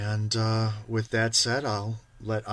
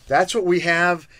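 loud, raised-pitch show promo; keyed-up, louder announcer energy; excited hype; 6 semitones higher, 7 dB louder than usual. Real, not acted. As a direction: sell the suspense to the viewers. Hyping next show's products.

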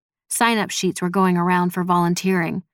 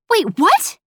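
high, loud shocked screech; 13 semitones higher, 5 dB louder than usual. A narrator's reading. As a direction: screech it in disbelief. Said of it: "she screeched".

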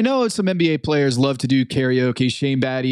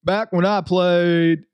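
slow, drawn-out imitation; stretched-out catchphrase impression; mock Charles Barkley; 2 semitones higher, slower than usual. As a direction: lightly imitate a drawling ex-player. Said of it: "P G, he got it down pat".

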